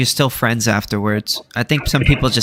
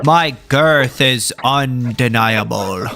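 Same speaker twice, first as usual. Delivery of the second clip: mock grandiose; slower than usual.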